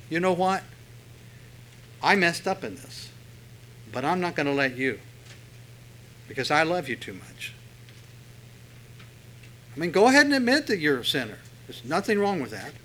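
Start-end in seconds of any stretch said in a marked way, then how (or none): 0.1-7.5 sincere parent. Shown as a demonstration. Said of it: "what you ought to say".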